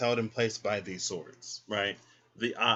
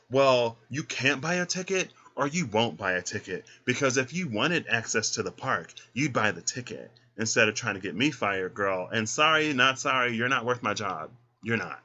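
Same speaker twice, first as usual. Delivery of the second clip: sassy clerk; 4 dB louder than usual. Pretend. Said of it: "the person is like".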